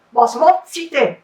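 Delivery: a hint of a magic fish; fish prince voice. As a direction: call it up from the water. Enchanted fish answers.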